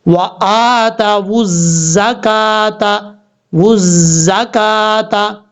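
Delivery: very slow chanted recitation; Quranic recitation. Shown as a demonstration. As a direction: intone it slowly like tajweed. Recitation demo.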